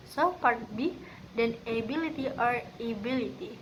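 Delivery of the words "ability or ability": "ability" with emphasis on "bil"; second-syllable stress. Shown as a demonstration. Student demonstrating word stress, second syllable of "ability" emphasized. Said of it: "which emphasize the second syllable".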